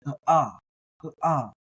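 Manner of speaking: "uh, ah" split by a catch in the throat; guttural stop. Shown as a demonstration. Teacher showing how to treat the Ayin, guttural stop. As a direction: cut off "uh" in the throat, then release "ah". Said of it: "a guttural stop, like the Okina in Hawaiian".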